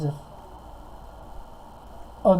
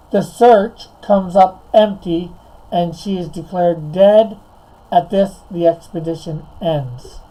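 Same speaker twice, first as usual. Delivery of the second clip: repeating more clearly. Real, not acted. Repeating the synopsis for someone who couldn't hear it, clearly and deliberately. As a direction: spell out the synopsis phrase by phrase to be heard. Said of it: "Say that whole thing again".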